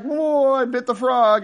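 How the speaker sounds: high mock wail of a hooked fish; panicked fish. Hooked fish being reeled away, mock panic.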